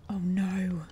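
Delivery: whispered dread; horrified whisper. Real, not acted. Whispering as she realizes she's been inhaling gas. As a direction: breathe it out in horror.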